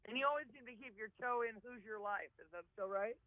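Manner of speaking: muffled, with a cold. Real, not acted. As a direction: speak muffled through a stuffy cold. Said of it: "You're a little muffled".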